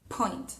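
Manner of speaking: "Point" con la P explosiva, bien fuerte; strong plosive p. Shown as a demonstration. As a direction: suelta el aire de golpe en "Point". ("Point" con una P muy aspirada)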